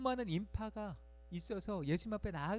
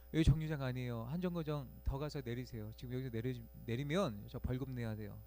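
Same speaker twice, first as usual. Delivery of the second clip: cold and matter-of-fact; 5 semitones lower than usual. Retold or imitated. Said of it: "냉철하게 그렇게 이야기를 하는데".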